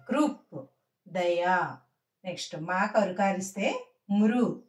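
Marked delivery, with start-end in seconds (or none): 0.1-0.6 కృప్ as one short higher word, closing on p; half last letter. Shown as a demonstration. Teacher showing the joined reading, half last letter. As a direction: cut the vowel after p in కృప్. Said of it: "సగం అక్షరంగా పలకాలి".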